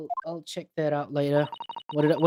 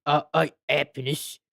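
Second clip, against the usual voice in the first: Cockney accent. Shown as a demonstration. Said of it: "say it in a Cockney accent".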